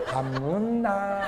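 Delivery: soft, slow and sweet 밥 먹나; tender husband. Retold or imitated. Husband asking a bar hostess, sweetly and slowly. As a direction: coo it gently like a smitten man. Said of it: "술집 여자한테 물어볼 때는요".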